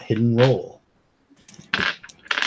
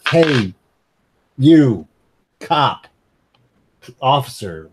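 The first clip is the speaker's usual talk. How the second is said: calling out; 4 dB louder than usual. Acted. Player hails the constable loudly.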